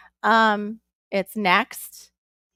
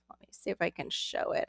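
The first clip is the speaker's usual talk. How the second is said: whispered aside; 3 semitones lower, 11 dB quieter than usual. Real, not acted. Aside while fetching camera.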